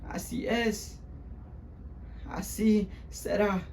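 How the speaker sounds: high, hushed, spaced-out repetition; resigned consoling mother. Acted. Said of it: "said the same thing over again".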